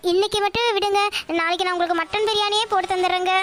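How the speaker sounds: mildly weepy plea; understated acted crying; tearful pleading. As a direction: plead with a touch of tears. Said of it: "இது என்ன அழுகாச்சி".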